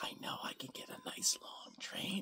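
very soft, secretive whisper.

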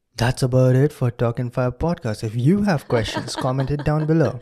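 on-air radio DJ announcer style. Podcast host signing off the episode, in a radio jockey voice. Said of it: "That's my radio jockey voice".

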